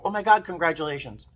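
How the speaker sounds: high, eager cheer; excited congratulations. Retold or imitated. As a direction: blurt it out happily. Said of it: "My first instinct was to go".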